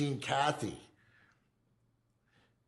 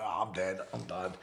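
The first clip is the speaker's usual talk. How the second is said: weak and quiet; 6 semitones lower, 8 dB quieter than usual. Retold or imitated. Dying, coughing blood.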